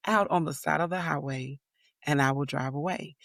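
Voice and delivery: calm warning through clenched patience. Retold or imitated. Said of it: "I said it very calmly".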